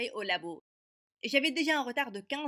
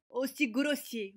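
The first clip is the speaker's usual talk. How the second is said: slow, drawn-out aussi grossier with a higher pitch; slow emphasis; 4 semitones higher, 3 dB louder, slower than usual. Acted. New girl slowly stressing "aussi grossier" at the rude boy. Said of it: "ne te moque pas de mon accent".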